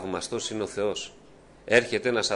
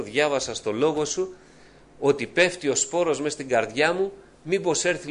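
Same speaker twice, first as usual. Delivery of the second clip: higher, anxious plea to the Lord; fearful pleading prayer; 5 semitones higher, 4 dB louder than usual. Retold or imitated. Praying at night, afraid the seed is stolen, pleading higher. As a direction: beg with rising worry.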